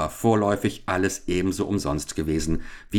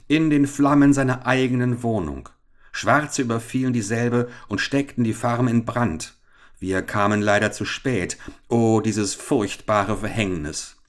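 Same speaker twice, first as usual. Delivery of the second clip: raised, declaimed tale of woe; overly loud lament; 4 semitones higher than usual. Acted. Police captain to the gathered town, loudly lamenting. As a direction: announce the tragedy for everyone to hear. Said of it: "sprach übermäßig laut".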